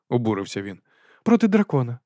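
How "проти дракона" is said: airily. A narrator's reading. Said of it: "досить безтурботно продовжила".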